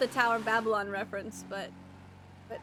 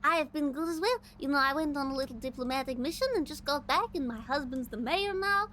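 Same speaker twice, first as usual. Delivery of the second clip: gracious first lady; 3 semitones higher than usual. Acted. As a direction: share news as a polite first lady. In-character first lady chat.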